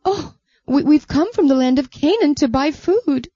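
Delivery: a frightened pleading answer; nervous brothers. Acted. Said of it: "They answered".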